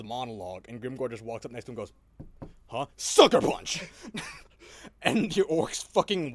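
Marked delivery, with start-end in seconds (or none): 2.7-3.8 loud brutish yell, pitched up; mock orc shout. Orc warlord sucker-punching the villain, hammed-up yell. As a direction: bellow it like a thuggish orc boss.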